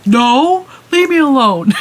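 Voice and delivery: high mock-sulky boy's brush-off; a lightly voiced embarrassed kid pushing her away. RJ telling his sister to leave him alone, a touch of high sulky. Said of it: "He goes".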